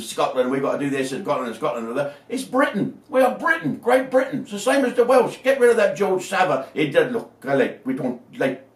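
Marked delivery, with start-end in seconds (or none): 2.3-6.7 fired-up patriotic. Real, not acted. Patriotic rant.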